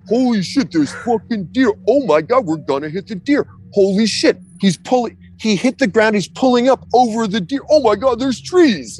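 panicked running commentary; frantic inner voice. Retold or imitated. Retold panic during landing.

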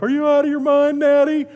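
mock-scolding dad; exasperated parent. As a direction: scold the kid in disbelief. Parent scolding kids, retold.

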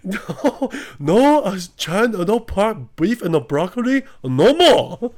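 high, emphatic mock Asian accent; drive-thru worker refusing in caricatured Asian accent; imitated Asian accent. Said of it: "it's literally me doing the Asian accent".

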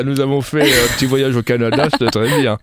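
plummy voice; posh snooty French accent; snobbish accent. Pretend. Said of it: "C'est l'accent snobinard, ça".

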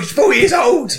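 exasperated. Real, not acted. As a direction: exclaim it, exasperated at the silly question. Exasperated correction of other speaker.

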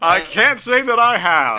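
slow, laughing reply. Real, not acted. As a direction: answer while still laughing.

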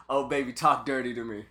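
flat robotic sex-bot voice; monotone computer voice. Pretend. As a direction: read it like a deadpan computer. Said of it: "gotta have that monotone computer voice".

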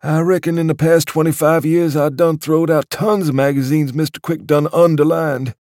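a humble waiter speaking of his master; respectful old waiter. Acted. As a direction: explain it with awe for the master. Waiter recalling the magazines.

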